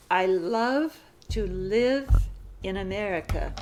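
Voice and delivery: slow, careful phrasing; slow dictation. Shown as a demonstration. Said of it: "Sentence fifty-five".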